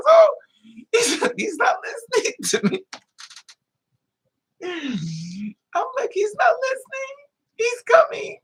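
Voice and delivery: very high, whimpering cry; mock crying panic. Watching the man come at him, tearful and high. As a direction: whine it like you're about to cry. Terrified as attacker approaches.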